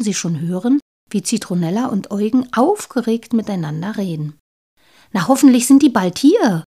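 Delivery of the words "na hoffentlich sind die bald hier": chattering. Acted. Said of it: "plapperte Zitronella".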